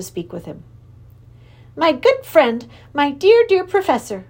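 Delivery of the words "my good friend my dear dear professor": lisped affectionately. Acted. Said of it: "he lisped affectionately".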